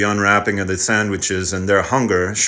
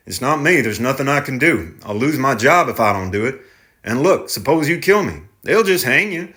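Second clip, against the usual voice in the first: driver, raised pleading; 5 semitones higher than usual. Acted. Driver explains he's powerless.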